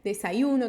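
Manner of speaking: Desayuno with y said like i. Shown as a demonstration. Teacher comparing regional ways to say desayuno. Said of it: "vai mudar muito a pronúncia segundo o país".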